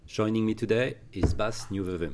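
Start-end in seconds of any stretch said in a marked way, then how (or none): 1.3-2.1 Nieuwevumme said the Dutch way; Dutch pronunciation. Real, not acted. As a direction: try Nieuwevumme with Dutch sounds. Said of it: "Pretty impressive how you pronounce my last name".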